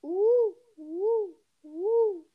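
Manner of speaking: high, loud monkey hoots; monkey impression. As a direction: hoot like a playful monkey. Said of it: "It's a monkey".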